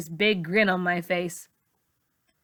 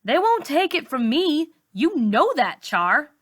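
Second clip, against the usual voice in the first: dry shaky voice; 6 semitones higher than usual. A narrator's reading. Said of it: "in a dry, shaky voice".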